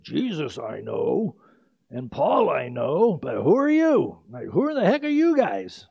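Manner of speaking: a preacher hamming up a demon challenging the exorcists; evil spirit imitation. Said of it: "I'll do my best evil spirit imitation".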